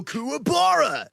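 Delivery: high, slow, drawn-out cartoon-dub call; imitating Yusuke. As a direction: stretch the name like a dubbed hero. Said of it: "I go".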